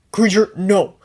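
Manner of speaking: sharp loud call of no; firm loud command to stop. A narrator's reading. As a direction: stop the elf mid-swing with a firm call. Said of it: "Harry called him off".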